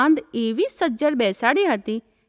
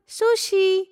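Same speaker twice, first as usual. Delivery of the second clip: higher, drawn-out tender call; lilting, affectionate name-call; sweet calling; 6 semitones higher, much slower than usual. A narrator's reading. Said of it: "મીઠા અવાજમાં".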